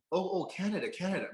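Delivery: high Southern voice as it dawns on her; Southern accent, realising. Acted. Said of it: "I guess it clicked in".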